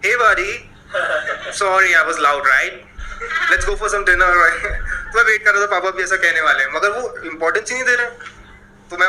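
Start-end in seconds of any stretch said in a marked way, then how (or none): 0.0-4.6 web series dad. Retold or imitated. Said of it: "पापा लोग connect करते हैं ना".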